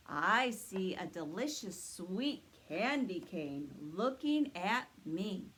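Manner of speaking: slow booming Santa reply. Acted. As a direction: answer slowly like Santa himself. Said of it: "let's ask Santa what he sees".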